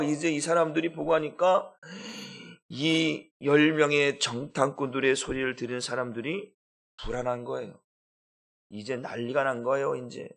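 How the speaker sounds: ordinary delivery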